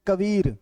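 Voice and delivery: कबीर with weight on "beer"; कबीर, stressed and stretched after "ka"; stress on second syllable. Shown as a demonstration. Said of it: "तब व पर विशेष बल".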